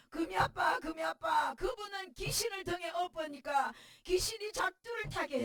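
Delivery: loud, pressing retold plea; a wife retelling how she pressed her husband, loud; urgent plea to husband. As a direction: call out to him with urgency.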